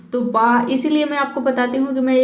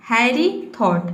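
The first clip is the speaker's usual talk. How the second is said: slow reading; much slower than usual. Shown as a demonstration. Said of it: "reads story line slowly".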